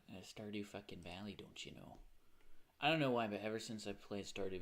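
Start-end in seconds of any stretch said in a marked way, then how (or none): 0.1-2.0 put-on Midwest accent. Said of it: "that Midwest accent for it".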